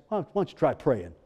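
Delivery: low, offhand rhetorical suggestion. Acted. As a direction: toss out the obvious answer, low. Answers preacher's own question, first take.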